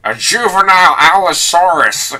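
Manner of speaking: high, loud auctioneer call. Retold or imitated. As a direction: announce it like an auctioneer. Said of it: "you gotta say it like the auctioneer".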